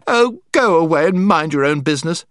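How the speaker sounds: put-on cross girl snapping at the boy; temper. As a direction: flare up at him in a temper. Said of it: "Jill suddenly flew into a temper".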